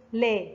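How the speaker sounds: لا sounded out as a model syllable; لا with fatha. Shown as a demonstration. Teacher repeating the fatha rule, لا sounded out clearly. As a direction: say لا with a light l and fronted a. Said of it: "اللام فوقها فتحة تنطق".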